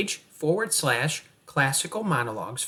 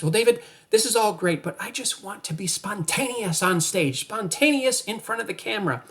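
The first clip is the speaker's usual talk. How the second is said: lightly mocked actor, pitched up; higher, mildly whiny put-on protest; 6 semitones higher than usual. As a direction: imitate an eager actor objecting. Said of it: "if you're the kind of actor".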